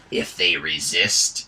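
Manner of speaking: put-on loud, slow, self-important hobgoblin with a thick accent; pompous hobgoblin. Viewmaster Toad announces the arrest, pompous hobgoblin voice.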